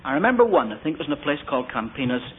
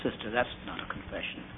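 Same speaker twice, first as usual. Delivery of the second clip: gently; 4 semitones lower, 11 dB quieter than usual. Retold or imitated. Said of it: "so I just said gently".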